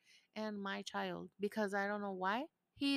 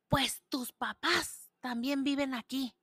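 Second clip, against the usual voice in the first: put-on higher, louder sassy teen; mocking son's comeback; 5 semitones higher, 6 dB louder than usual. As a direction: mimic his cheeky reply. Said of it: "he has the audacity to say".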